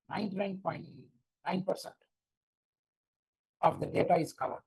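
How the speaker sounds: distorted robotic mic. Real, not acted. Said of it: "Ranjan, your mic is distorting".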